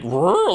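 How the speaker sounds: high, loud questioning noise; imitated baffled noise. Owner blue-screens at the answer, high baffled noise. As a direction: make a mock short-circuit sound. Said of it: "like, blue screen".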